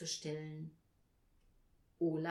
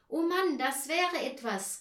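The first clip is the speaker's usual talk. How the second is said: put-on loud, higher excited boy's exclamation; enthusiastic; 8 semitones higher, 8 dB louder than usual. A narrator's reading. Paul cheers the idea of a fire, enthusiastic. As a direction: call out with sudden delight. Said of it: "rief Paul begeistert".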